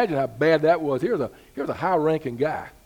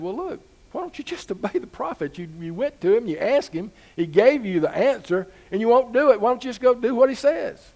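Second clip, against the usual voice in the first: put-on a little girl's high urging voice; pleading girl; 7 semitones higher, 4 dB louder than usual. Servant girl urging her master to obey, high and earnest. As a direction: press him gently to just obey.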